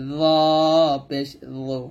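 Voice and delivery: long জ with a heavy, full o colour; thick consonant. Shown as a demonstration. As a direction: thicken জ and round the জু toward zo. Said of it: "আর এটা হবে জ মোটা করে". (মোটা করে টেনে জ পেশ জু)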